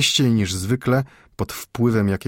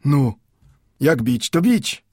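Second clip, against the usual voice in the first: put-on higher, guarded polite old man's reply; old Mendel answers the clerk warily; old Jewish bookbinder; 7 semitones higher, 4 dB louder, slower than usual. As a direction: answer cautiously, warding off ill. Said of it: "pokrywając wrażenie".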